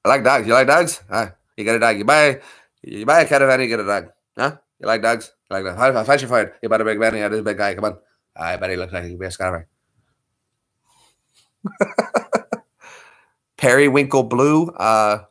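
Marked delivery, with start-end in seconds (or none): 0.0-9.6 Traveller accent attempt. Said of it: "that's more like Pikey".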